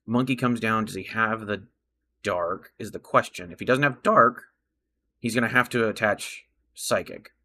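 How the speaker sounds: muffled behind a hand; hand over mouth. Real, not acted. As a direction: talk through your hand. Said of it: "talking with my hand over my mouth".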